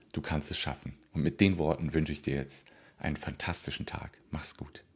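soft whispered goodbye; whispering. Real, not acted. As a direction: whisper the farewell. Whispered sign-off.

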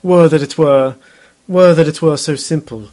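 mumbled Texas twang, mispronouncing; Texas accent. Retold or imitated. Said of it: "thick, like, Texas accent".

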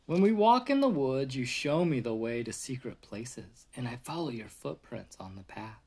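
gentle storybook read-aloud voice; reading to a child. Acted. Reading picture book to toddler.

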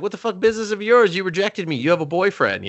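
high, fast mock outrage; worked-up imitation of an indignant man; retold indignation. Retold quarrel with rejecting woman.

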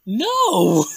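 sharp loud protesting no. Real, not acted. Host loudly rejects co-host's suggestion of a drag performer. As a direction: shout down the suggestion.

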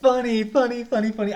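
loud laughing repeats. Real, not acted. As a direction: laugh through the words.

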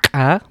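ka with a popped ejective k far back in the throat; uvular ejective. Shown as a demonstration. Teacher demonstrating Georgian, ka as a uvular ejective. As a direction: pop the k of ka from the uvula. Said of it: "which is this uvular ejective".

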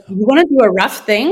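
puzzled question, voice put on; incredulous echo of his words; confused. Wife echoing husband's odd request, puzzled. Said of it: "And I was like".

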